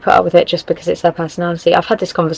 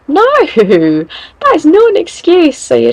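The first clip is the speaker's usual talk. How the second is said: high, loud, slow laughing no; an incredulous laughing refusal; laughing protest; 10 semitones higher, 5 dB louder, slower than usual. Real, not acted. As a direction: laugh it off in disbelief. Laughing outraged reaction.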